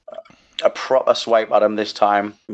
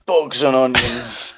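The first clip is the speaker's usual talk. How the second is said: slow, lightly voiced old nana; a hint of a grandma grumbling; old lady voice; slower than usual. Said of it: "after I've done my old lady impression".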